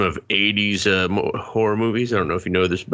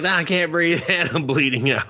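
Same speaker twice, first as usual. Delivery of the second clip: mock gasping plea; 7 semitones higher than usual. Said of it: "She's like".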